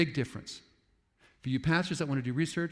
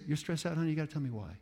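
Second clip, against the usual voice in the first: tender grandma; faster than usual. Retold or imitated. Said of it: "what we have to say is".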